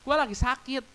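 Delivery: loud, high, anguished cry to God; desperate shouted prayer, voice way up. Retold or imitated. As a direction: pour out the pain, yelling upward. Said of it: "Lu boleh teriak".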